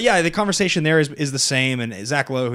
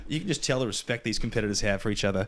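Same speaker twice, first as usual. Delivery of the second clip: mock Australian commentator. Mocking tennis commentary to his podcast co-host in an Australian accent. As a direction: lay on the Australian twang like a courtside announcer. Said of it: "a thick Australian accent doing commentary".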